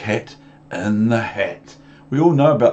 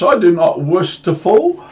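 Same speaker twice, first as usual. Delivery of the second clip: squeaky fish protest; 9 semitones higher, 7 dB louder than usual. Acted. Fish being held up, squealing high to be put down. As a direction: wail it like a fish dangling in the air.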